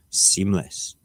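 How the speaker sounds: whispered, dripping sarcasm; a scornful whispered "Seamless"; sarcastic whisper. Acted. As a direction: breathe it out mockingly. Sarcastic aside after mock scenario.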